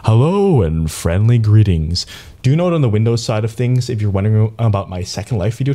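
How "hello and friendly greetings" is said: loud, slow showy greeting; projected presenter's hello with stretched vowels; magical voice thing. Shown as a demonstration. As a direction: roll out a big, drawn-out welcome. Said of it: "I do this magical voice thing".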